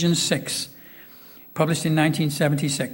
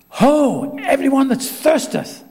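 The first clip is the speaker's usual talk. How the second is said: higher, louder call; 8 semitones higher, 5 dB louder, slower than usual. Retold or imitated. Jesus calling to the crowd at the feast, raised. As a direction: cry it out to the crowd. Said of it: "cried in a loud voice".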